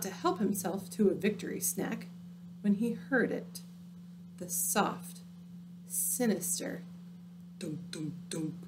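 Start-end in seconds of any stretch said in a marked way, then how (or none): 4.4-6.8 hushed and eerie, barely voiced; spooky whisper. A narrator's reading. Spooky storytelling hush. 7.6-8.5 eerie soft dunks. A narrator's reading. Creeping carrot sound.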